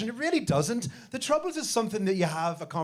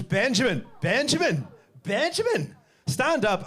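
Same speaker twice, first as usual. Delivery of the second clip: each Benjamin pitched higher, building to a high call; teacher calling out; 4 semitones higher than usual. Retold or imitated. Teacher calling the name in class.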